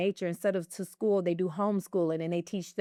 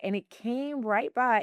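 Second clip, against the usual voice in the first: ordinary talk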